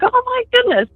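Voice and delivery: high-pitched retold gasp of delight; retold amazement. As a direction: re-enact amazement at big news, voice high. Retold reaction to pregnancy news.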